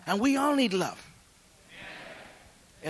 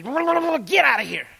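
loud, slow gruff order to leave; the cop letting him go, telling him to get out; retold cop yelling; 5 semitones higher, 6 dB louder, much slower than usual. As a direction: bark him out the door, slowly. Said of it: "And he starts cussing".

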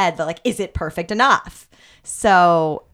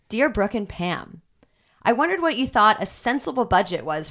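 newscaster voice. Acted. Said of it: "your best newscaster voice".

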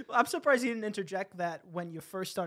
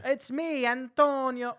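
lightly put-on Italian accent, higher pitch; terrible Italian accent; 5 semitones higher, much slower than usual. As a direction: slip into a cheesy Italian accent. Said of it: "The most terrible Italian accent of all time?".

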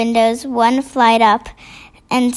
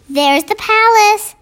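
put-on girl's whisper; 8 semitones higher, 3 dB louder than usual. A narrator's reading. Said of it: "Sophie whispered back".

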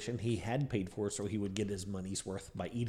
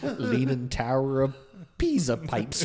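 laughing; 5 semitones higher, 6 dB louder, much slower than usual. Acted. Cockney slang bit, laughing.

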